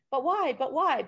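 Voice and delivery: lightly voiced kid whining why; nagging kid. Impatient self imitating a little kid, mock whiny why. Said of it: "like a kid".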